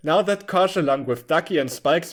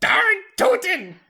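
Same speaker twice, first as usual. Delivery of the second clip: put-on very high, young-sounding voice. Reading a younger Topsy's line after asking to make the voice higher: higher voice for young Topsy. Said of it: "Topsy retorted".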